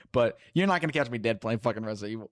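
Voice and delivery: talking through hiccups. Real, not acted. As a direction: hiccups breaking the words. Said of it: "Sorry, I have hiccups".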